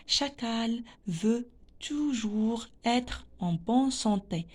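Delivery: slow, word-by-word model answer; slow read-aloud. Shown as a demonstration. Teacher gives pupils the answer, slow read-aloud. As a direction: read the answer out slowly for learners.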